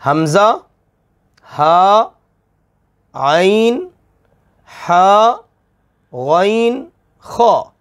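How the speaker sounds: each letter sounded from the throat; hamza, ha, ain, ha, ghain, kha one by one; teacher's letter drill; throat letters listed. Shown as a demonstration. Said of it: "वो छः हरूफ हैं".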